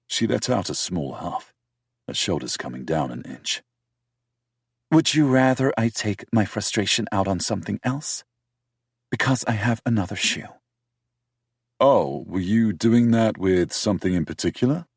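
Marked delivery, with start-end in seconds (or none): 4.9-14.9 put-on higher, louder young woman, defensive; insist, pitched up and forceful; defensive British woman voiced high; heroine's voice.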